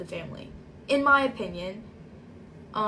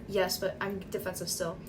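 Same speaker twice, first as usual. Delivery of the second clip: defensive shrug; 4 semitones lower, 5 dB quieter than usual. Retold or imitated. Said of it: "Like, kinda shrugging".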